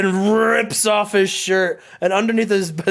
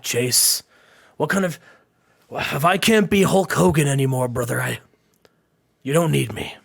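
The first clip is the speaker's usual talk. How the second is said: halting, self-doubting wrestler; mild dejection. Acted. Hulk telling his partner he may not belong, dejected. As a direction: trail off between long pauses, understated defeat.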